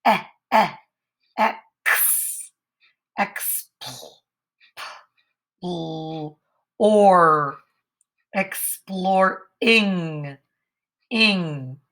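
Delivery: "exploring" stretched very slowly, syllable by syllable; sounding out a big word. Shown as a demonstration. Teacher sounding out exploring slowly. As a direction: pull apart ex, pl, or, ing. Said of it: "Ooh, that's a big word".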